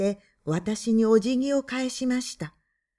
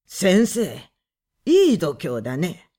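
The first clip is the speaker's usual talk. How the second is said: low, louder, sneering man's voice; a rough man needling the writer; gruff mocking man; 5 semitones lower, 4 dB louder than usual. A narrator's reading. Visitor man taunting the husband, gruff and mocking.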